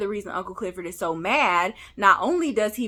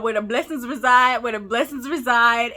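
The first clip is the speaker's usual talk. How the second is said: pastor's commercial. Retold or imitated. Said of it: "commercial with Pastor Woodbine talk".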